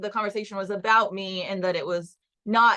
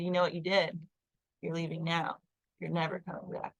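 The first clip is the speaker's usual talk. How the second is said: calmly; 3 semitones lower, 5 dB quieter than usual. Retold or imitated. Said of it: "my super just calmly said".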